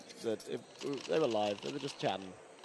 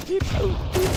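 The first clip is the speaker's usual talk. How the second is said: high loud beep boop; robot beeps; 6 dB louder, slower than usual. Pretend. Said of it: "be this on the background".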